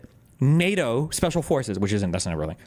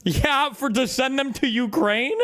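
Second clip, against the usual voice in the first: high-pitched disbelieving question; incredulous; 9 semitones higher than usual. Real, not acted. Streamer reacting to British conscription, incredulous.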